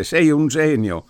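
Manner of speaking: high, excited call; exclaiming. A narrator's reading. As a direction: burst out with delight. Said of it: "fu sentito esclamare il prete".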